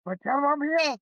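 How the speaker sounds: quoting late husband. Retold or imitated. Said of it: "He'd say".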